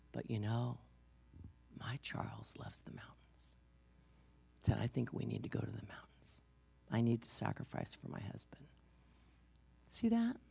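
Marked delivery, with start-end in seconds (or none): 0.1-8.7 hushed, halting imitation of a wife giving in; suddenly quiet. Wife giving up the beach for her husband, acted very quietly. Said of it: "And then she's quiet".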